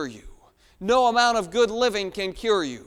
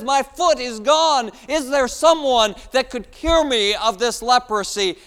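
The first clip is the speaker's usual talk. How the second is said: desperate plea; 4 semitones higher, 7 dB louder than usual. Acted. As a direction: beg for someone to cure you. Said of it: "another one says".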